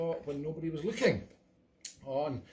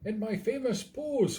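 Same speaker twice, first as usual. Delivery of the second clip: a singer; 4 semitones higher than usual. Acted. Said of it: "It's really the speaker".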